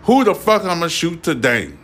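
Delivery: high mocking voice of a trigger-happy gun owner; gun owner mocked. Vlogger mocking gun owners who stare at their guns, in a high taunting voice. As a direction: sneer it out as the gun-crazy guy. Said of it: "be like".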